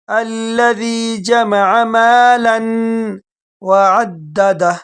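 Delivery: مالا and وعددہ read as separate words; mistaken recitation. Shown as a demonstration. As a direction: split the words apart wrongly. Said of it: "بعض لوگ mistake کرتے ہیں".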